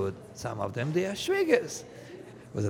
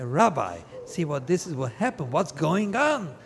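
1 distraught father; 5 semitones higher, 6 dB louder than usual. Acted. Distraught father complains to rabbi.

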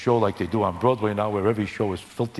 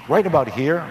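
lightly voiced Ed Sullivan. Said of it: "words of Ed Sullivan".

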